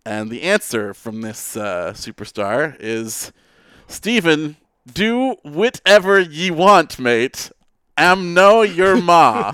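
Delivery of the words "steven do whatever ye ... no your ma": put-on Scottish accent. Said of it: "Why does the person talk so weird?".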